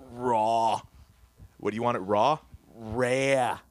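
put-on light mobster accent; hint of an Italian American mobster accent. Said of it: "mobster accent".

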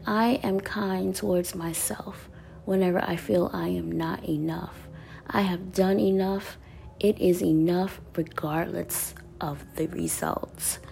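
reading the card again in a soft near-whisper. Shown as a demonstration. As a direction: repeat it softly to yourself, half whispered. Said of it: "I said".

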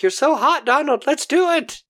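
high-pitched, mock-lustful gush; swooning. Judy turned on by Donald, swooning. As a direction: play a hammed-up swoon over a lover. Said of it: "she's swooning".

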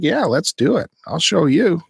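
lightly voiced eager child; brave kid. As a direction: sound keen to prove yourself. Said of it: "They're like".

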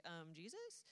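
mock a doubtful interruption with a questioning lift; hesitant query. Martha questions the order to open the tomb, hesitant.

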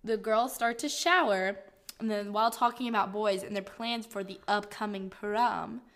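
mildly theatrical synopsis reading; lightly dramatic narration. Acted. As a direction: read it out with a touch of drama. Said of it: "I don't know why I'm saying it like this".

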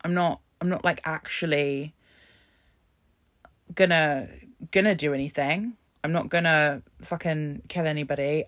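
a light mock of a careless shrugging voice; imitating a dismissive person. Mocking people online who excuse violent language, lightly voiced. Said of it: "some people would think".

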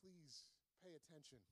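very soft, quiet urging; gentle plea. Retold or imitated. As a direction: ask it softly, almost pleading. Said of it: "Jesus is saying".

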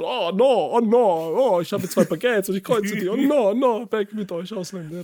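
mock hostile Frenchman. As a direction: ham up a baguette-crossing Frenchman. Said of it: "als wären die da alle so feindlich".

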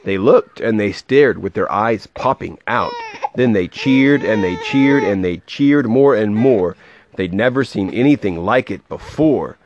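lively, rhythmic read-aloud; storybook voice with a measured bounce; story narration. A narrator's reading. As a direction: read a rhyming picture book to a child.

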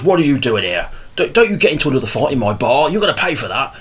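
lightly voiced rough barman; a hint of a gruff pub landlord telling someone off; big rough barman. Shown as a demonstration. Game master voicing a recurring barman, lightly played rough voice. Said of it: "big, big rough voice".

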